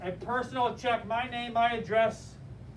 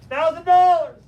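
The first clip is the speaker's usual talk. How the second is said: astonished outburst; 6 semitones higher, 12 dB louder than usual. Retold or imitated. Class sees the check on screen.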